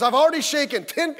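a mock-annoyed visitor teasing the pastor, sarcastic. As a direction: grumble in jest about too many handshakes. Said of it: "he was being sarcastic".

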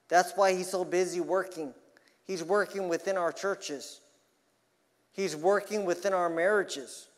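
urgent, warning pulpit delivery; emphatic preaching. Acted. Preacher warning that the devil works within churches, emphatic preaching. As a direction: drive each statement home to the congregation.

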